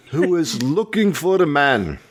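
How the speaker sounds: badly faked English accent. Shown as a demonstration. Co-host in an accent guessing game, bad English accent. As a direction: attempt an English accent, not very well. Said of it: "that's obviously English, really bad English".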